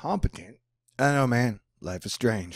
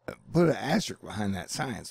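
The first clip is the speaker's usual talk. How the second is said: usual speaking voice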